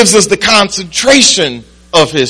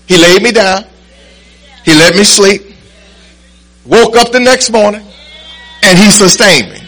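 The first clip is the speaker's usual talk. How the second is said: tag; 3 semitones higher than usual. Real, not acted. Preaches with rising force to congregation.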